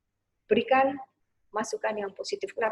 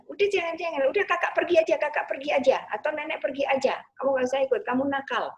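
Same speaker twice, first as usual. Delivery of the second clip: put-on higher scolding mother brushing the child off; mock impatient parent, raised voice; 4 semitones higher, 3 dB louder, faster than usual. Shown as a demonstration. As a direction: scold and shoo the crying child away. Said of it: "ibu memberikan kata-kata yang negatif".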